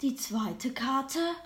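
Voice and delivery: slow solemn reveal; fortune teller. Acted. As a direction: draw the words out mysteriously.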